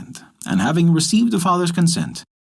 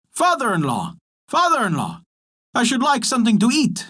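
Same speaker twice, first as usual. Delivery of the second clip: lightly voiced frog, higher, calling out; a frog calling at the door, pitched up; shouting frog; 8 semitones higher than usual. A narrator's reading. Frog calls to the father at the door, lightly voiced higher call. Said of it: "commenced to shout".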